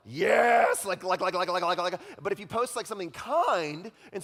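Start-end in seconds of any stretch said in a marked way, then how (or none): 0.1-0.9 loud, high cheer of approval; mock excited cheer. Preacher mimics people loving a rant, loud cheer. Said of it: "people are like". 0.9-2.0 mock eager liking. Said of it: "people are like".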